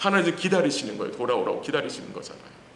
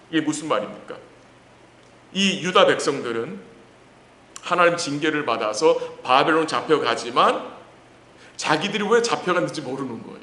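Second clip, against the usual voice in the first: ordinary talk, nothing marked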